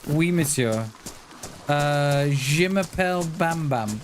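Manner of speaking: lightly put-on French accent; pretend French accent. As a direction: play at being French, with basic phrases. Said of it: "if I said, "Yeah, I'm French".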